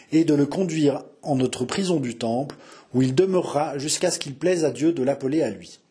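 formal, measured proclamation; royal decree read aloud. A narrator's reading. Narrator reading a prison order in the king's name, formal proclamation.

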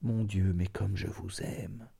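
soft, indistinct murmur of love; balbutié, indistinct. A narrator's reading. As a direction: let the words fade, barely articulated. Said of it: "balbutiés et indistincts". (balbutié tout bas, d'une voix indistincte)

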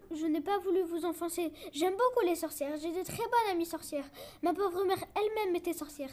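pleading. Acted. Boy on his knees begging the witch for mercy, pleading. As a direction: beg for your life, babbling. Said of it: "je vais la supplier".

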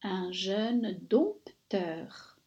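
slow whispered dictation; whispering. Shown as a demonstration. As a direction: whisper it slowly. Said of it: "whispered dictation".

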